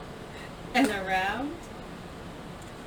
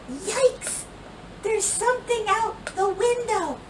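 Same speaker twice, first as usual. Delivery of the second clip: startled fright; 10 semitones higher than usual. A narrator's reading. Scared child at night.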